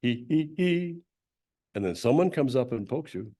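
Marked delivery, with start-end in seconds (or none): 0.0-1.0 higher playful hee hee hee; sung giggle; laughing hee hee. Shown as a demonstration. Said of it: "It's laughing".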